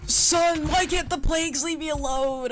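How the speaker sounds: loud fed-up outburst; exasperated yell. Real, not acted. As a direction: vent at the game. Exasperated at game plagues.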